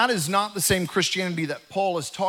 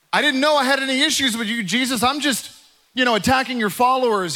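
higher, fast and offhand, like it's no big deal; breezy casual retort; 5 semitones higher, faster than usual. Retold or imitated. Paul to Jesus, a quick higher offhand protest. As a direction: toss it off as a shrug of an answer.

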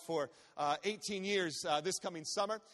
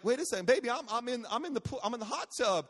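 mock alarm; 4 semitones higher than usual. Dad alarmed as child counts.

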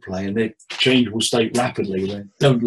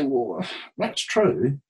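reassuring reframe. Shown as a demonstration. Therapist reframing a client's words, gently reassuring. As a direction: turn it round kindly for the client. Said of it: "I cunningly switch it round".

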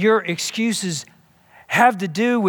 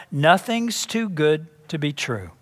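calm but emphatic; 2 semitones lower than usual. Retold or imitated. Dad to his whining son in the car, calm but emphatic. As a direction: lay it down gently but firmly like a dad. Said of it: "said very calmly but very emphatically".

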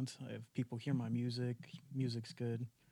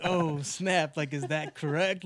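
mock-shocked, chuckling; laughing disbelief; 3 semitones higher, 7 dB louder, slower than usual. Actor retelling his shock at the Russian accent note, laughing. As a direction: laugh through it, half amused and half alarmed. Retold reaction to the script note.

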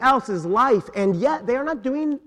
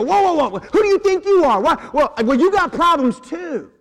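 defensive outburst; 7 semitones higher than usual. Retold or imitated. Churchgoer confronted about sin, snapping back defensively. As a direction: bristle as if accused, pitch shooting up. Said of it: "immediately go".

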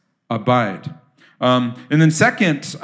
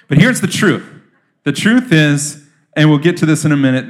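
emphatic preaching; 5 dB louder than usual. Real, not acted. Preacher driving home the point.

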